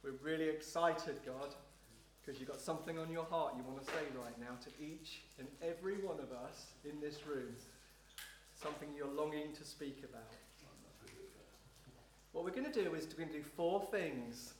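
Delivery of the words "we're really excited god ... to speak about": low, hushed prayer to God; quiet prayer. Real, not acted. Pastor thanking God before the congregation, quiet prayer. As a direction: pray softly and intimately, pitch held low.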